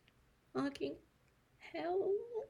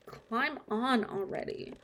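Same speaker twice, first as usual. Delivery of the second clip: ordinary talk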